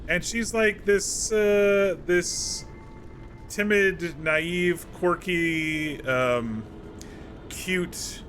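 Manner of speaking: delighted fan gush. Real, not acted. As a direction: swoon over the cute elf. Gushing over a new companion.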